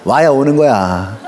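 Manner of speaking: low, slow and firm; stern reminder. Retold or imitated. Pastor telling members, low and stern. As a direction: lay down the rule slowly. Pastor quoting what he always says.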